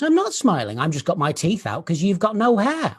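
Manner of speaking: imitating young daughter. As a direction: imitate a toddler insisting on her point. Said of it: "my daughter. She was around three".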